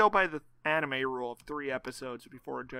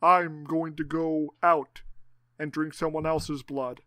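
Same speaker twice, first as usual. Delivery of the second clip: put-on Eastern European accent; slower than usual. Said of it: "My Eastern European accent".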